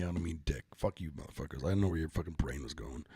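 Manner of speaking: low, hushed joking aside; quiet aside. Real, not acted. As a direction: drop it to a sly mutter.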